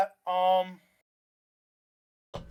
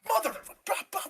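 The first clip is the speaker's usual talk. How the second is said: much higher, half-hearted mock yell of curses; mock screaming cuss; 12 semitones higher, much faster than usual. Storming out of the venue at the promoter, mock yelling. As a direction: toss off the curses like a retold tantrum. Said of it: "like, screaming".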